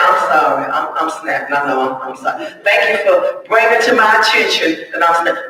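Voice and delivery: a humble, sincere apology for snapping. Shown as a demonstration. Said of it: "Instead of just saying".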